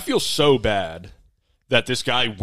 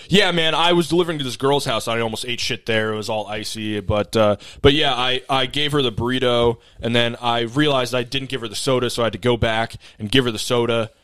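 imitating a chatty, rushing driver; rambling rapid-fire. Delivery driver tells customer an unrelated story, rambling rapid-fire. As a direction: spill the unrelated anecdote without a breather. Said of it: "says it exactly like this".

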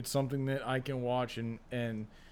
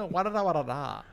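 mock nonsense babble; 4 semitones higher than usual. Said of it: "that stupid TikTok clip".

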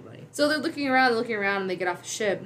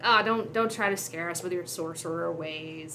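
mocking. General making fun of Darth Vader's sorcery, mocking. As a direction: lightly make fun of his powers. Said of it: "he's making fun of him".

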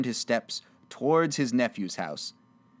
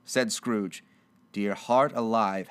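usual speaking voice

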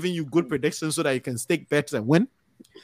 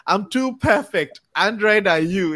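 lightly imitated catchphrase voice, higher and louder; slow, raised opening in a playful impersonation; Nag; 4 semitones higher, 5 dB louder than usual. Host quoting a favourite clip maker, lightly put-on voice. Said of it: "In Nag's voice".

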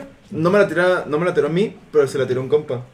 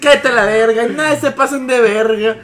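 put-on drunk snap; 4 semitones higher than usual.

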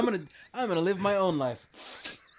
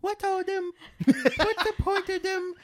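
much higher, louder London scold; Michael Caine impression; 6 dB louder than usual. Redoing Michael Caine for friends, high loud London scold. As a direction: belt the scoff. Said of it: "Let's hear your Michelle Caine".

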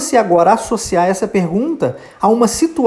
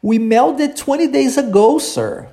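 model sentence; 5 semitones higher than usual. Shown as a demonstration. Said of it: "Vamos tentar agora?".

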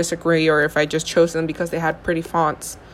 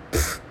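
scoffing puff of air; dismissive pfft; 5 dB quieter than usual. Retold or imitated. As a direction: blow it off with a pfft. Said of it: "and I was like".

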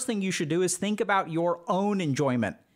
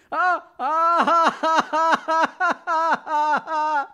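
high, loud forced ha-ha cackling; non-empathic laughter; 11 semitones higher, 7 dB louder, much slower than usual. Shown as a demonstration. Demo for viewers of forced fun, loud high fake laughing. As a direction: push the fun, trying way too hard. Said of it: "You see how hard I'm trying to have fun?".

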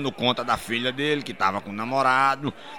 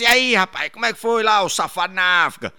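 cheery greeting; 4 semitones higher than usual. Acted. Friend greeting the returning traveller, high and cheery. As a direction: greet a buddy brightly.

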